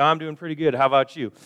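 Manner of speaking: polite reply. Retold or imitated. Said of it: "And you said".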